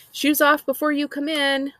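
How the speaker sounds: called out high and loud; hollering mom. A narrator's reading. Mom hollering at daughter at the door, loud call. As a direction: holler it across the kitchen. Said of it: "Mom hollers".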